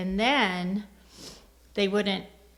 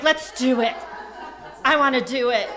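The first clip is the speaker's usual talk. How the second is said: loud, pitched-up imitation of eagerness; eager husband; 4 semitones higher, 11 dB louder than usual. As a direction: blurt it out, all in. Acting husband's eager answer.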